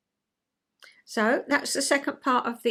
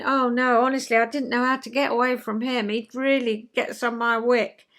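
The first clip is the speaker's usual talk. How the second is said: moaning in the loo; 3 dB louder than usual. Shown as a demonstration. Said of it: "I'll be saying".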